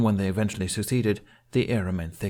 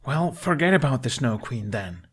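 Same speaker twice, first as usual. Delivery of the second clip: pleading; 5 semitones higher than usual. A narrator's reading. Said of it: "Hiccup pleaded".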